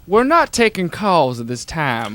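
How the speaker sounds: creepy recorded voice. Retold or imitated. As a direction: lightly imitate an eerie answering machine. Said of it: "this really creepy voice that says".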